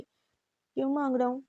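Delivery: slow, drawn-out challenge; challenging question. A narrator's reading. Brother rising to face his teasing sister, slow and challenging. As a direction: lean into it, daring her to say it.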